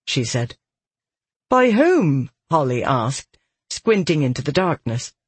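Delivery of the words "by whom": alarmed, high woman's voice. Acted. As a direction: ask sharply, pitched up. Holly alarmed.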